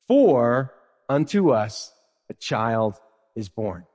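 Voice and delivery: slow solemn scripture reading. Shown as a demonstration. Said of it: "reads the verse slowly".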